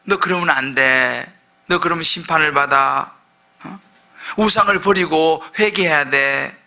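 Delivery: lightly voiced God, slow and low warning; a hint of a stern God scolding slowly. Preacher voicing God warning Israel, low and slow. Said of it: "하나님께서 자꾸 이야기하는 거예요".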